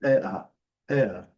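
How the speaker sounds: "E, A" gliding, with no R; teacher sounding out "E, A"; British vowel demo. Shown as a demonstration. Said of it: "seria mais ou menos uma coisa".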